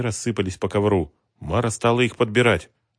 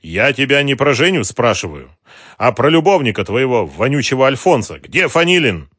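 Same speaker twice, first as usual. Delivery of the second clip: loud, raised, angry demand; angry interrogation; 5 semitones higher, 8 dB louder than usual. A narrator's reading. Ocheretin interrogating Mara, loud and angry. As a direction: hammer her with the question. Thug interrogating woman angrily.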